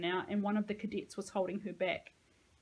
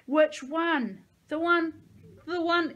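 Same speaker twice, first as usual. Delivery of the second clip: louder, higher, hard demand; angry demand; 8 semitones higher, 9 dB louder, slower than usual. Acted. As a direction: push hard, losing patience. Interrogator presses harder.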